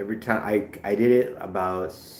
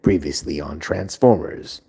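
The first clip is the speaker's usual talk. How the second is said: TV recap announcer; 3 semitones lower, 5 dB louder than usual. Pretend. TV recap parody.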